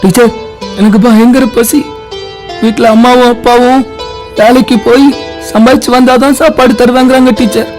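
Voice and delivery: understated, plaintive confession; pitiful pleading. Acted. Hungry boy telling the teacher his troubles, pleading. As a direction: explain it piteously, appealing to the teacher.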